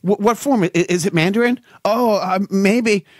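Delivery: hammed-up excitement; mock eager. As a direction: pretend to get overexcited about Chinese dialects. Imagined eager reply about Mandarin.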